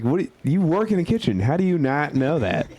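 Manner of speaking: can't believe what you're hearing; incredulous. Retold or imitated. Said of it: "I was like".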